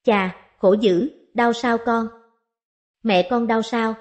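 slow, mock-sympathetic old lord; put-on pity. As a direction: lay the pity on, a little too slow at first. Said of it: "lên giọng thương xót".

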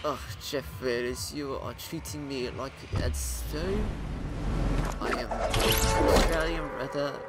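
put-on a lightly done Australian accent for the new guy character; casual Australian accent chatting to viewers. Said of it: "I don't know why I've been given, uh, an Australian accent".

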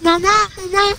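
Elmo voice. Shown as a demonstration. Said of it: "No, it's like this".

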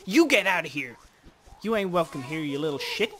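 loud angry get outta here; shouting at creature. Acted. Gamer shouting at a pest raiding his berries. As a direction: yell it at the pest.

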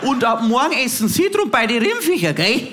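a hint of a cross old granny putting on posh German; grandma, annoyed, addressing the vegan girl formally; grumpy grandma in High German. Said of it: "sagt sie es auf Hochdeutsch".

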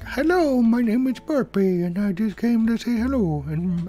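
high cartoon burp voice; talking burp. Streamer voicing his own burp, high cartoon voice. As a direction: give the burp a silly little voice. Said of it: "It was like".

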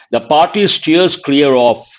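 the phrase read slowly, each word set apart; slow it down so students catch the idiom; slow teaching read. Shown as a demonstration. Teacher reading the key phrase to students, slowly. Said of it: "means avoid something".

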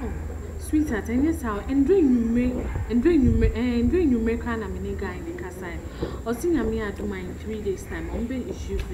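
soft, low sweetheart talk; soothing. Acted. Sweetheart explaining a delay in the visa, soothing. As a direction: placate your partner gently and quietly.

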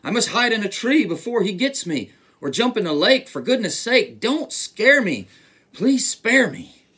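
loud, high panicked elephant; hammed-up alarm at a mouse; frightened shouting. A narrator's reading. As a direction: plead in mock terror. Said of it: "shouted the elephant".

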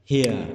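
"Here" with the vowel gliding from I into E; diphthong I-E in "Here". Shown as a demonstration. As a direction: sound out the I-E glide in "Here". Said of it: "I E".

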